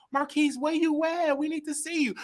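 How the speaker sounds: high, softened mock-sweet voice; real nice. Sister phoning to find him, imitated as real nice. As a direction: imitate a sister coaxing nicely. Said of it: "being real nice".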